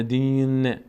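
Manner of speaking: "دین" with an added vowel after the final ن; wrong verse ending. Shown as a demonstration. Teacher warns learners off this, "دین" with a voweled ن. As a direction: let the ن of "دین" spill into a short vowel. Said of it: "اینطور نشه".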